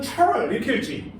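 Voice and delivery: playful English-style reading of 철; mock English accent. Shown as a demonstration. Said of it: "영어야?".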